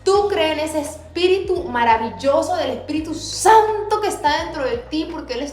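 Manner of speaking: retelling God's message to a rebellious people, fervently; fervent preaching. Retold or imitated. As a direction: preach it with rising fervor. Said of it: "yo digo".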